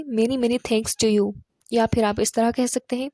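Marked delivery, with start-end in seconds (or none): 0.0-1.3 slow, careful model phrase; slow demo. Shown as a demonstration. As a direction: lay it out slowly for learners. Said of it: "آپ اس طرح بھی کہہ سکتے ہیں". (آہستہ مثال)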